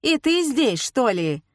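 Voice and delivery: put-on high, startled question from an old woman; surprised to find him there. A narrator's reading. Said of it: "спросила баба Валя".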